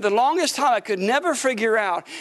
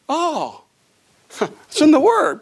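laughing, louder and slower; 6 semitones higher, 6 dB louder, slower than usual. Real, not acted. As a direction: laugh it out with joy. Laughing revelation in sermon.

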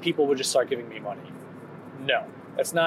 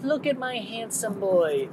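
grandma voice; 6 semitones higher, slower than usual. Retold or imitated. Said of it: "the grandma who's like".

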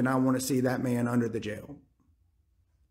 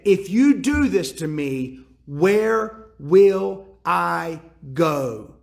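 pleading; 4 dB louder, much slower than usual. Retold or imitated. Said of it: "She's pleading".

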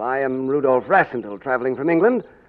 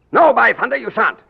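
emphatic refusal; 9 semitones higher, 6 dB louder than usual. Acted. King overruling his cousin's departure.

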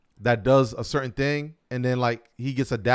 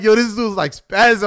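excited aside; 9 semitones higher, 8 dB louder than usual. Retold or imitated. Telling friend about angry customer.

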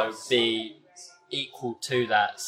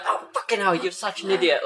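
higher-pitched mock exasperated groaning complaint; imitated exasperation; 5 semitones higher than usual. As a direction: grumble like a thwarted friend, lightly acted. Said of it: "And he's just like".

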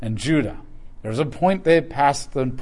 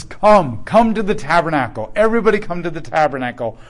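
voice of God calling; 2 semitones higher, 4 dB louder than usual. Retold or imitated. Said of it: "God says".

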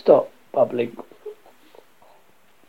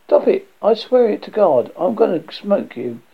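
raised, higher threatening voice; loud acted exasperation; angry warning; 6 semitones higher, 6 dB louder than usual. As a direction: warn forcefully, voice up.

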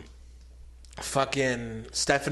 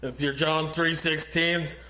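Stone Cold promo impression. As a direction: drag the words out like a wrestler cutting a promo. Mock Stone Cold Austin promo.

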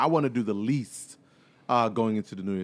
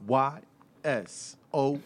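podcast announcer voice; 4 dB quieter, much slower than usual. Acted. Podcast intro, drawn out announcer.

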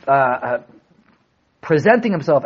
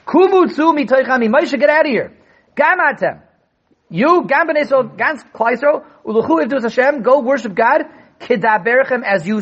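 1 raised; 6 semitones higher than usual. Pretend. Paro's words, raised and higher.

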